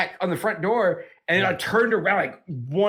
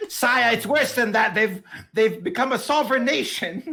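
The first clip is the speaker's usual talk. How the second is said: alarmed royal messenger; 5 semitones higher than usual. Acted. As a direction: break grave news to the king, half laughing. Messenger reporting dire news to king.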